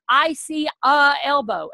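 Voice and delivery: slow, careful "I see a elbow" with "a"; student's mistake. Retold or imitated. Mock student answering the teacher, mild imitation. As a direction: mimic a learner saying "a elbow". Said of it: "the teacher is probably going to say".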